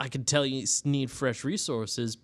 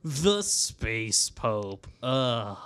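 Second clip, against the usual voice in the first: slow scornful repeat, ending in a groan; derisive; much slower than usual. Acted. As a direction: sneer the title out. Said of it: "there's a little bit of derision in his voice".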